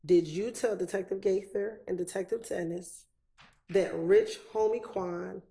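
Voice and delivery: deliberate, phrase-by-phrase repeat; separated phrases. Real, not acted. Lawyer repeats the question for a confused witness, separating each phrase. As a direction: question broken into chunks with long pauses. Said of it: "I'll repeat it one more time and I'll separate it".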